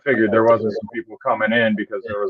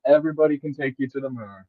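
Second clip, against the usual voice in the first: offhand mock hype; 4 dB quieter, faster than usual. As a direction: toss it off fast after a chuckle. Repeats the joke after a laugh.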